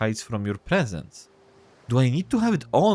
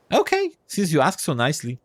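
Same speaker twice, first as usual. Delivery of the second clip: lightly voiced crab, a little raised; squeaky crab voice; 4 semitones higher than usual. Crab agreeing to let go, mildly squeaky voice. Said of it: "a squeaky voice".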